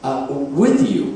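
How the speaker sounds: hasty correction. Acted. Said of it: "he corrected".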